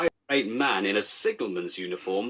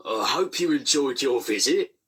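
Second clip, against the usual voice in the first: forced brightness, slightly higher; would-be cheerful; 4 semitones higher than usual. A narrator's reading. Controller seeing off the inspector, forced cheer. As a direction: fake cheer covering nerves. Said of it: "in a would-be cheerful voice".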